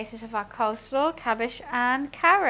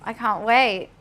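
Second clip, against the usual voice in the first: flat "can't wait" that sounds bored; deadpan excitement; 4 dB louder, slower than usual. Real, not acted. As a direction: say you're thrilled without meaning it. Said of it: "I said that like I couldn't care less".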